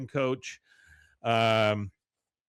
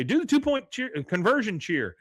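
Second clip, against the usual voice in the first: calling the cheer; 10 semitones higher than usual. Retold or imitated. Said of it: "you hear Peggy say".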